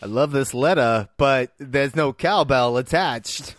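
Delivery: celebrity parody with odd, slowing rhythm; Christopher Walken. Acted. Emperor reading his scroll, comic actor impression. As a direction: mimic the actor, dragging out the ending. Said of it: "This is the Christopher Walken scene?".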